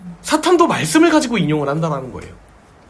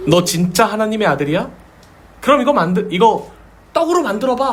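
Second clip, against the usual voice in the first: taunting challenge; 5 semitones higher than usual. Retold or imitated. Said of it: "도전하는 거예요".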